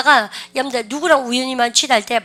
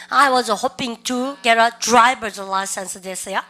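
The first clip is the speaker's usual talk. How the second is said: very slow, each word spelled out for students; teacher's slow drill read; slow repeat-after-me; much slower than usual. Shown as a demonstration. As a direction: model it slowly for the class to copy. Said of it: "시작".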